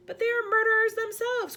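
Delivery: army chief crying out against the Queen; cried out. A narrator's reading. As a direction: protest it at full volume. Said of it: "cried the head of the army".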